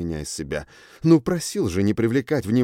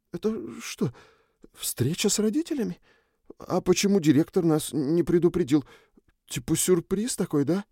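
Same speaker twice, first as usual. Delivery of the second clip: put-on higher, uneasy young man; startled boy; 8 semitones higher than usual. A narrator's reading. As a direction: ask it like you smell a trap. Obri voiced by narrator.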